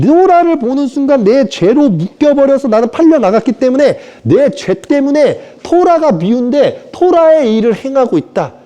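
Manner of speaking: high, strained confessing voice; high anguished apostle's lament; impassioned confession. Acted. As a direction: cry out the confession.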